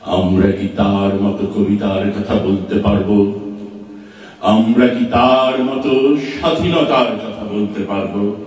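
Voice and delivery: measured, declaimed verse with drawn-out line endings; poetry recitation. Acted. Recites a poem after introducing it. (ধীর লয়ে আবেগ দিয়ে কবিতা আবৃত্তি)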